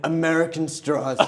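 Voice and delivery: lightly voiced presidential parody; Trump. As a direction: declare it as a mock patriotic politician. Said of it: "his impressions".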